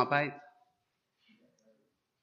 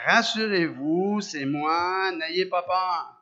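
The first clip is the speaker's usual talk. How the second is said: slow, steady reassuring Jesus voice; calm reassurance; 4 dB louder, much slower than usual. Acted. Jesus calms his scared disciples, slow and reassuring. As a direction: settle frightened men slowly. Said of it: "Jésus leur dit aussitôt".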